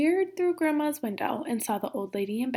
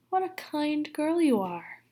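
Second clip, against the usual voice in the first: smiling sly wolf; 6 semitones higher, slower than usual. Acted. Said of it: "smiled the wolf".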